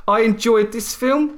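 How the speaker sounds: slowed, rising guess at the text; sceptical mock quote. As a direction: quote it back with doubt. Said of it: "What did you say?".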